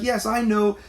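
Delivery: high, breezy mock of the lady. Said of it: "She's like".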